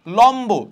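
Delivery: লম্ব loud, as lom-bo; b fully sounded. Shown as a demonstration. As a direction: keep the b in লম্ব. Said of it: "বয়ের উচ্চারণ বজায় থাকতেছে".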